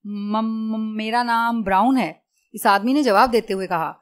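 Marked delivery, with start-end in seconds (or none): 0.1-2.1 stuck on the first sound, then out it comes; acted stuttering fear; frightened stammer. A narrator's reading. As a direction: stammer nervously before giving the name. Frightened captive stammers his name.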